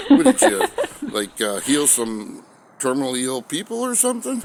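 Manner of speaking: high, laughing through the quote; can barely keep a straight face; laughing disbelief. Retold or imitated. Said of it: "He says".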